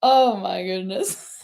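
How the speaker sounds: laughing. Real, not acted. Laughing at the pun.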